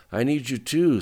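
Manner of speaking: sleepy. A narrator's reading. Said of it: "slightly more coherent".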